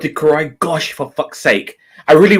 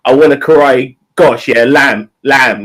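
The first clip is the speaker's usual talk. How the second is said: sarcastic; 3 dB louder than usual. Pretend. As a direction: pretend sarcastic order, leaning on lamb. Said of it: "I might be a bit sarcastic".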